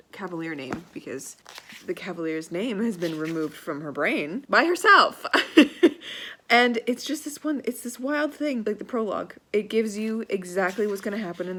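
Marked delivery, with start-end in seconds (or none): 5.3-6.4 loud laugh. Real, not acted. Laughing at the blacked-out name.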